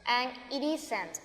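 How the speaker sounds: "it isn't" said slowly, the t of "it" tapped like an r, "iɾ isent"; linked it isn't. Shown as a demonstration. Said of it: "yo uno el it con el is".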